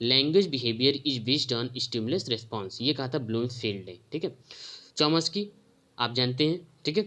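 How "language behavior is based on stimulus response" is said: slow dictation. Shown as a demonstration. Teacher repeats the quote slowly.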